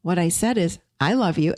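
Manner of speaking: calm, deliberate repeat; steady, measured reassurance; slow, with presence. Shown as a demonstration. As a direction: say it gently and let it land. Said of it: "you gotta say it slow".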